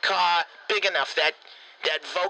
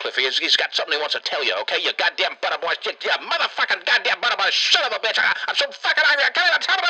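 Macho Man Clifford Savage wrestler rant; faster than usual. Acted. Wrestler character yelling at Cliffy over the phone, building wrestler rant. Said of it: "here's Macho Man Clifford Savage".

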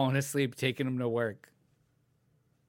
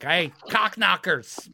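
shouted insult; 5 semitones higher, 4 dB louder, slower than usual. Retold or imitated. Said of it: "the guy's like".

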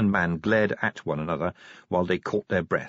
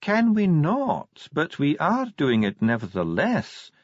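higher-pitched dwarf, calmly defiant; Ardent, calm defiance; 8 semitones higher than usual. A narrator's reading. Dwarf brushes off the commander's objection, calmly. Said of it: "said Ardent calmly".

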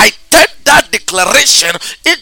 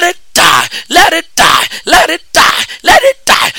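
shouting; 6 semitones higher than usual. Real, not acted. Prayer decree shouted over listener.

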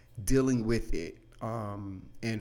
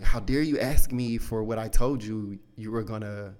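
louder, rising mock outburst at a child; angry dad; 6 dB louder than usual. Dad scolding his child for asking, mock angry and louder. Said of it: "you know, anger".

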